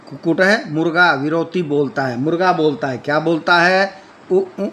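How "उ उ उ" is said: short rooster calls. Shown as a demonstration. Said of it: "पहले एक मात्रा ह्रस्व बोलता है उ".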